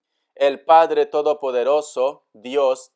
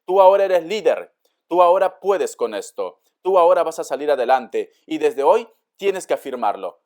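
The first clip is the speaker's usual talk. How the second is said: rousing pep talk; 5 dB louder than usual. Real, not acted.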